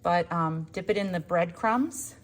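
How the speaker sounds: talking while catching breath; breathy, winded from stepping outside. Real, not acted. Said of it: "If I sound out of breath, I am".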